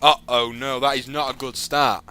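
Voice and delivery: mock alarm. Reading bad news report.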